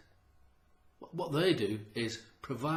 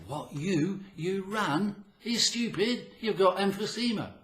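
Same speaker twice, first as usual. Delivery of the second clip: high, louder mocking disbelief; scornful doubter, pitched up high; incredulous scoffer; 8 semitones higher, 3 dB louder than usual. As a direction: sneer at the runner as a fool. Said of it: "And people will say".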